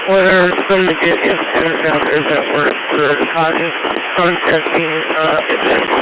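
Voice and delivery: crackly two-way radio transmission; fading, noisy handheld radio; noisy radio signal. Real, not acted. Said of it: "you're, you're, uh, very, very noisy".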